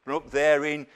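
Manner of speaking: a mocking put-down of Jesus of Nazareth; mocking sneer. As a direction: look down your nose at the man from up north. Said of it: "if they wanted to demean him".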